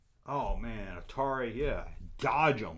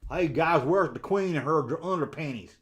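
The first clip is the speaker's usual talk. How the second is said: put-on southern accent; 3 semitones higher, 5 dB louder than usual. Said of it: "my southern accent".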